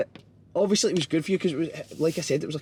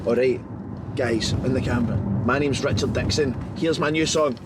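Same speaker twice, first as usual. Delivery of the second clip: mock posh rapper; 3 semitones lower than usual. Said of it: "see if I'm sitting and I'm talking like this".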